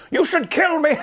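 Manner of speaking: high, put-on monster voice; mock gloomy monster. Monster suddenly asking to be killed, mock tragic. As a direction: offer it up with mock tragedy. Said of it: "Frankenstein's monster's like".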